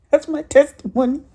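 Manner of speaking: laughing. Real, not acted. To the church, wrapping up her testimony, laughing. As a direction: laugh through the words.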